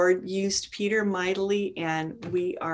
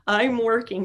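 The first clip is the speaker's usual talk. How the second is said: winking God; 3 semitones higher than usual. Acted. God winking at a praying believer, playful encouragement. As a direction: draw it out with a knowing wink. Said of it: "it's like God winking, saying".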